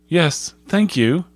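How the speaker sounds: mildly polite schoolboy, high and slow; well-mannered boy's slow reply. A narrator's reading. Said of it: "with native politeness".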